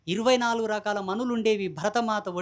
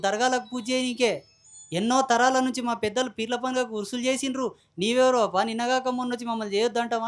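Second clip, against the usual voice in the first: imitating an indignant caller, a little raised; mock a caller's forceful objection; 3 semitones higher than usual. Devotees phoning to object to his stand, mock forceful. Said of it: "ఫోన్లు చేసి గట్టిగా మాట్లాడతారు".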